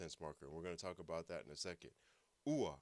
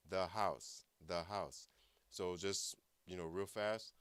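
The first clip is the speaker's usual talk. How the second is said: ordinary delivery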